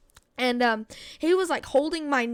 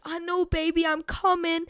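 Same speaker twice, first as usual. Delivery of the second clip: higher, soothing mother's voice, lightly done; a touch of motherly urgency; reassuring mom; 4 semitones higher than usual. Retold or imitated. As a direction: imitate a mom comforting her kid. Mother reassuring her hurt child.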